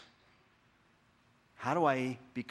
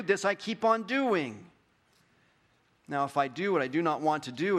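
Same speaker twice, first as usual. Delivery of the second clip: building, louder scripture reading; 2 semitones higher, 3 dB louder than usual. Acted. Preacher reading Paul's struggle to church, building. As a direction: read Paul's lament with rising urgency. Reads Romans seven aloud.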